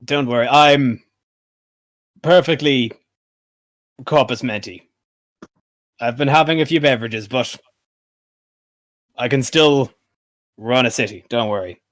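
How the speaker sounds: put-on words spaced out with long drunken pauses; tipsy city ruler. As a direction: play a drinker insisting he is fine. Game master plays tipsy Pythor.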